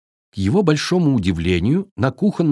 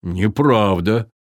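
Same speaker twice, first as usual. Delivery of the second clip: slow, low firm objection; viking objecting; 3 semitones lower, much slower than usual. Acted. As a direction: gently contradict like a big viking. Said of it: "возразил викинг". (медленно и твёрдо)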